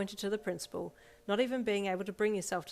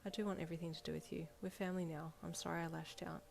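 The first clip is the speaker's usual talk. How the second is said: soft; 7 dB quieter than usual. Acted. Soft apology continues.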